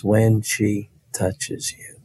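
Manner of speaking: very slow, softened echo; grandmother's remembered voice. Retold or imitated. Boy hearing grandmother's promise as the hand reaches him, slow and soft. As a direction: draw the words out slowly like a memory. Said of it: "I heard my grandmother's voice".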